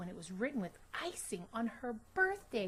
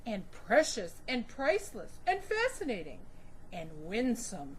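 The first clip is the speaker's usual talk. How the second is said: comforting father; 5 dB louder than usual. Acted.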